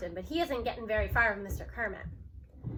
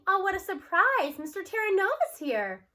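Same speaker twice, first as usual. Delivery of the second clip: mock surprise; 6 semitones higher, 4 dB louder than usual. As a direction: overact being surprised. Teacher fakes surprise at visitor.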